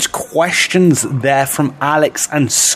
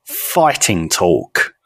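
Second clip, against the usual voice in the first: announcing the game title; 8 semitones lower, much slower than usual. Acted. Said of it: "this one is called".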